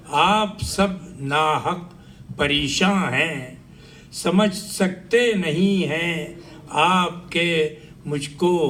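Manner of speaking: measured phrases with pauses between them; poem recitation. Acted. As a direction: declaim a narrative poem to the room.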